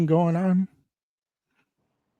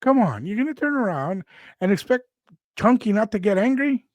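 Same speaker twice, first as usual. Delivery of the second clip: indignant; 6 semitones higher than usual. Retold or imitated. Indignant protest.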